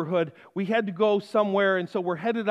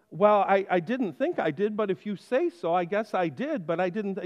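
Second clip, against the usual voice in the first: polite hedging; 2 semitones lower, 3 dB quieter than usual. Retold or imitated. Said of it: "because I'm being polite".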